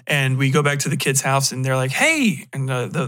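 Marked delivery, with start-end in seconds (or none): 1.9-2.5 high, drawn-out hey; acted delight at visitors; happy greeting. Family greets the returning couple, happy. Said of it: "the people are happy to see him".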